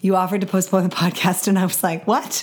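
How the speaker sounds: hoarse, nearly gone voice; raspy whisper. Real, not acted. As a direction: rasp it out with little voice. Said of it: "even though I have no voice".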